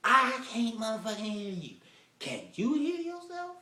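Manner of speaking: high, loud fed-up outburst; exasperated shout. Retold or imitated. Boyfriend thinking angrily at his mumbling date, exasperated shout. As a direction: blow up at her, incredulous. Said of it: "And I'm thinking".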